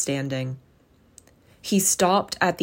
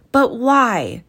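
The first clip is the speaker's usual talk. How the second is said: crying out; 6 semitones higher, 4 dB louder than usual. Acted. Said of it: "cried Scrooge's nephew".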